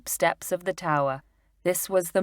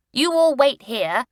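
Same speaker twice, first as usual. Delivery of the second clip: put-on a boy's eager voice, slightly raised; Julian voiced lightly; 8 semitones higher, 4 dB louder than usual. A narrator's reading. Julian pointing out the castle, eagerly. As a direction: read Julian's line as the eager boy.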